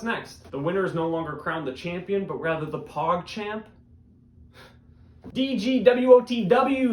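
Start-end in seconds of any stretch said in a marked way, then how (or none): 5.3-6.9 loud, higher, slow hype call; drawn-out announcer call; segment title call. Acted. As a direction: announce the segment like a show bumper.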